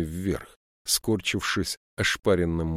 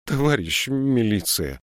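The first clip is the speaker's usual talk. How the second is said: slow, louder plea; old woman's appeal; 4 semitones higher, 4 dB louder than usual. A narrator's reading. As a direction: beg the militia like a frightened granny.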